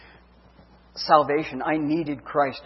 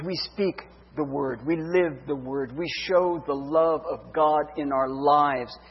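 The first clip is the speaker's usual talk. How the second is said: earnest preaching. Acted. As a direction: lean into each phrase like a pastor. Exhorts listeners as disciples.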